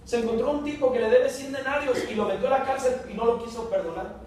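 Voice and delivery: high, eager telling the master; urgent report. Acted. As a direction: rush to tell the lord. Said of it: "Le fueron".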